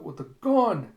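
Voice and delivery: high, loud alarmed yell; crying out. Retold or imitated. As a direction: yell out a sudden warning. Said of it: "The bartender cries out".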